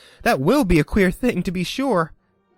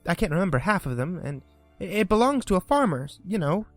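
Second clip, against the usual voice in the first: put-on higher, eager rush of girlish praise; eager chatter; 6 semitones higher than usual. A narrator's reading. Alice eagerly describes a terrier to the mouse. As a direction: gush about the neighbor's dog. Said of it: "so Alice went on eagerly".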